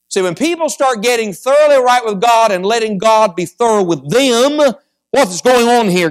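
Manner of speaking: high, driving sermon delivery; fervent preaching. Real, not acted. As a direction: preach it out to the congregation. Preaches with rising force.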